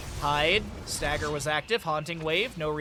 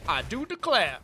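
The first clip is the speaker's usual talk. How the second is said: Southern belle; 4 semitones higher than usual. Pretend. Caster trying a Southern accent on a chat phrase.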